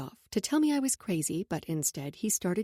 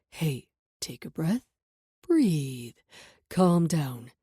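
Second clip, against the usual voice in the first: calm tone; 6 semitones lower, much slower than usual. A narrator's reading. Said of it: "His calm tone".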